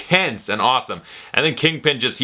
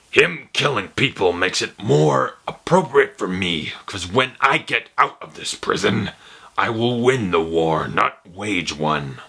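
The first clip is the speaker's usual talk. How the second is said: Kingpin voice; 2 semitones lower, slower than usual. Retold or imitated. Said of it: "I'll just say it as Kingpin".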